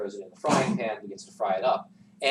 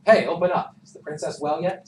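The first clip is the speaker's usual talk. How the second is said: loud, higher call through the door; guards calling; 6 semitones higher, 8 dB louder than usual. Acted.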